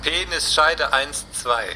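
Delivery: slow, patient correction. Acted. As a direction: spell the password out slowly. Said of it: "Pimmelscheide eins".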